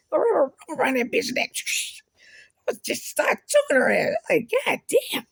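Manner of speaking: high, loud furious shouting; furious rant. Real, not acted. Furious rant at those who hurt.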